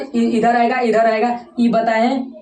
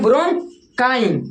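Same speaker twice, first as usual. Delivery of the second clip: slow drilled answer; much slower than usual. Shown as a demonstration. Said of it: "उसको क्या बोलते हैं".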